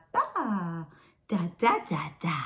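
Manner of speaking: imitating a baby's babble, syllable by syllable; baby babbling. Shown as a demonstration. Showing parents how a babbling baby sounds, mock babble. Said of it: "It might sound something like this".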